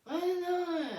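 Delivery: put-on high toddler babble; imitated toddler. Toddler son trying to say something, high-pitched imitation. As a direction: squeal it like a small child. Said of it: "he was like".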